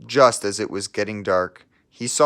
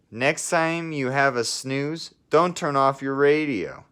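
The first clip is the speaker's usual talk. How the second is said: mild scolding; 6 semitones higher than usual. Acted. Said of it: "scolded Pippa".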